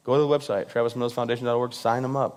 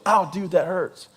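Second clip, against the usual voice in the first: mock whiny pain; 4 semitones higher, slower than usual. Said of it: "He feels it".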